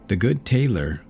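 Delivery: ordinary delivery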